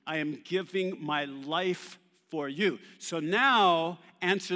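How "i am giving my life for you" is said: slow and earnest, every word weighed; mean each word slowly; sincere, slow. Shown as a demonstration. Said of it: "I'm telling you".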